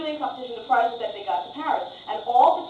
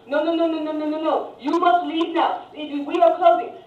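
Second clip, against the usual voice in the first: raised, deliberate refusal; insistent waiter; 4 semitones higher, 4 dB louder than usual. Retold or imitated. Waiter ordering American tourists out, firm and insistent. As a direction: shoo them out firmly.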